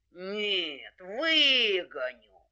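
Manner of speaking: long drawn-out, insistent vow; determined wolf. Acted. Wolf contradicts the hare, determined. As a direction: stretch the vow out very slowly.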